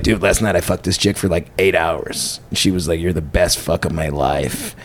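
low, soft mock-American bro brag; bragging dude impression. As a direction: play a smug bro boasting, pitched well down. Imitates bragging American dudes.

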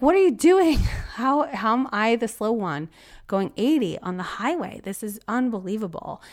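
high, loud disbelieving outcry; exasperated outburst. Retold or imitated. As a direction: yell it in disbelief, then laugh. Tailgated on highway, exasperated.

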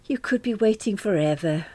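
a hint of a weary sigh in Daphne's voice. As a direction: say it like a resigned older friend. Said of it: "Daphne sighed".

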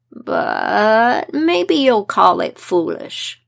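slow, hushed wise-woman voice; slow old woman voice. Acted. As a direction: let each word drag like an old crone. Old wise woman speaks slowly.

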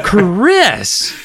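loud high call, laughing; shouting through laughter. Acted. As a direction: shout the name while laughing. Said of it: "Missus Powell shouted".

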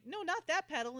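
high, loud panicky correction; frantic correction. Retold or imitated. Lee correcting Amanda's flying, high frantic. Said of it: "he's like".

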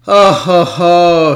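excited whoop. Real, not acted. Reacting to a rival's draft pick.

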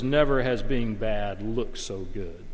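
slow deep trailer narrator voice. Retold or imitated. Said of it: "this deep narrator voice says".

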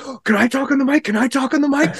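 high, soft mock-girl voice; eager girl. Girl begging the DJ for the mic, high-pitched imitation. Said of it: "some girl was like".

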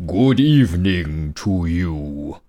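low, slow bear voice; lightly voiced big bear; white bear voice. White bear greets the man.

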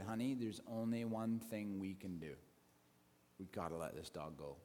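sad, quiet resolve, fading away; hushed resignation. Retold or imitated. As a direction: break it gently to your wife. Husband gently tells wife the plan.

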